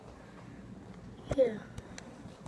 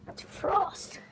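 unvoiced whisper; 5 semitones higher, 4 dB quieter than usual. Real, not acted. Vlogger whispering that it's frost. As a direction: let the word out on breath.

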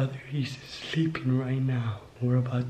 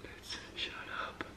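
whispering; 13 dB quieter than usual. Real, not acted. Hiding, keeping silent.

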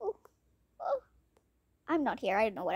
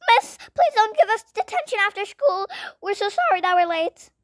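much higher, whiny crying plea; tearful plea; 7 semitones higher, 4 dB louder than usual. Acted. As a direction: beg the teacher not to punish. Student begging no detention.

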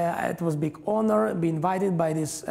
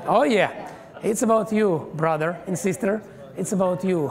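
fired-up pulpit exhortation; exhorting preacher. Acted. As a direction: drive it home to every listener.

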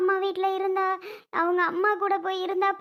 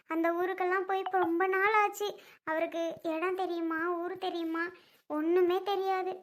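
quiet, fading worried murmur to herself; worried lament; 2 semitones lower, 7 dB quieter than usual. Acted. Grandmother alone, fretting over her missing family, quiet worried lament. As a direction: sink into a soft, hopeless fretting.

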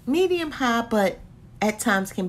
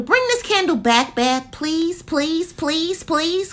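begging; 7 semitones higher, 4 dB louder, slower than usual. Real, not acted. Begging brand to return candle.

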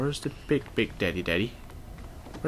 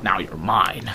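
1 gloating; 5 dB louder, slower than usual. Real, not acted. Gloating over hacked machine.

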